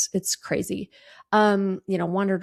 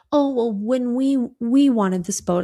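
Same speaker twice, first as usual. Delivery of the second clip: mock husband; 4 semitones higher than usual. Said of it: "he keeps trying to say".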